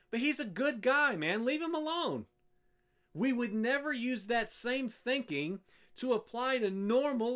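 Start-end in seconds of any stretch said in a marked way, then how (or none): 0.1-2.3 mimicked protest, rising higher at the end; mock defensive. Preacher voicing a wife excusing her husband, mock defensive. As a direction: make excuses for him, mockingly.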